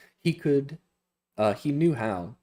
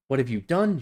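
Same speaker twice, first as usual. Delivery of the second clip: cried out; 4 semitones higher, 4 dB louder, faster than usual. Acted. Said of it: "she cried".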